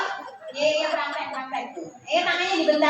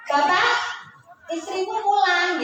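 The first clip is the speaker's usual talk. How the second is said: wife's greeting; 5 semitones higher than usual. Shown as a demonstration. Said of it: "Ini para istri bilang".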